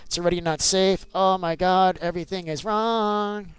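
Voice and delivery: loud, rushed panic, repeating it; panicked. Real, not acted. Dad panicking at a wither skeleton in front of his son, loud and rushed. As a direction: blurt it out as the mob closes in.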